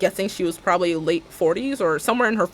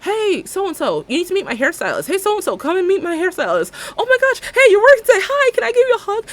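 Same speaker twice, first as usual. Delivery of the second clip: high, gushing and eager; gushing fan voice; 13 semitones higher, 6 dB louder than usual. Retold or imitated. Salon fans greeting their hairstylist, high and gushing. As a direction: squeal hello like an excited fan. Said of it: "that are like".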